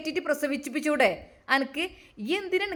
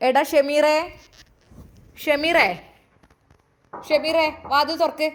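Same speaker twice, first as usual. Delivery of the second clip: calling out; 3 dB louder, slower than usual. Acted. Mother pounding at bedroom door.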